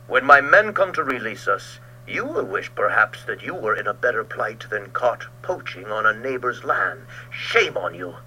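loud, scornful retort; angry retort. Acted. Ulrich answering Georg's taunt, angry retort. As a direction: hit back with scorn. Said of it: "retorted Ulrich".

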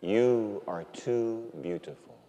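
slow, soft, reverent address; hushed awe. Retold or imitated. Priest marvelling at God's gift, hushed awe. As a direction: say it slowly and tenderly, word by word. Retold awed words to God.

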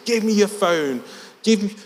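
high, mock-yelled Scouse accent; aggressive Scouse. Lad in a stranger's face, mock-screaming in Scouse. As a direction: imitate an angry Scouse demand. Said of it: "screaming in my face with a very Scouse accent".

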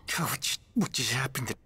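loud, disbelieving yell; outraged shout. Real, not acted. Gamer reeling from a threat, shouting in outrage. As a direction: blurt it out at full volume. Outburst after being threatened.

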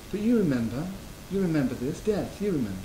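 soft, kindly nudge, not a scolding; gentle reminder. Retold or imitated. Buddha gently reminds grieving Ananda of impermanence, soft and kind. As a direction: remind him tenderly, never admonish. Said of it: "but of kind of reminder".

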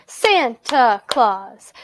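"Santa Claus" slowly in three even beats; syllable by syllable. Shown as a demonstration. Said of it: "listen very carefully to how I say those".

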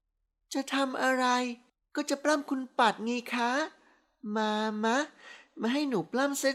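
put-on high, slow, soft drunk girl gushing; dreamy tipsy praise, drawn out. A narrator's reading. Tipsy wife teases him. (ชมแบบเมาๆ เสียงสูงหวานยืดยาด)

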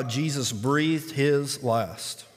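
slow and weighty, stretching breathed; slow solemn read. Shown as a demonstration. Preacher reading the death verse, slow and solemn. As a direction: let it land slowly. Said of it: "repeated for weight".

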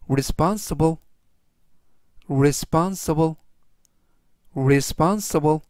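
responsible said clearly, slowing on the repeats; teacher modelling responsible; careful pronunciation demo. Shown as a demonstration. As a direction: model the word responsible for learners. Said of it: "이라고 발음하시면 되겠고요".

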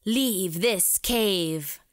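bat voice. Acted. Bat warns the intruders.

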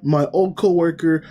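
high, put-on cheerful boss voice; fake cheer. Chief covering for workers, forced high cheer. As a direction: cover the anger with fake friendliness. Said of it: "to put on face".

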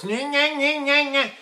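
high pinched "nyeh" chant; small-hole focus. Shown as a demonstration. Coach mocking the focus exercise, pinched nyehs. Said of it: "voice go through a small hole".

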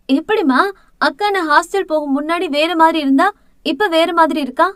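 amazed, pitch lifted high, rising to the end; a younger sister gaping at how her sister has changed; surprised. Acted. Younger sister, amazed at seeing her sister again, asks in high surprise. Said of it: "ஆச்சரியமாக பார்த்தாள்".

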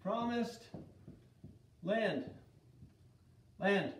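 Promised, then land, then Land, each set apart with long pauses; slow word by word. Shown as a demonstration. Teacher drilling the class on the promised land. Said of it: "This is the promised land".

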